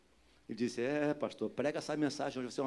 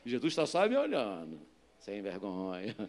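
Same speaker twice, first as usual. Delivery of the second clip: ordinary talk, nothing marked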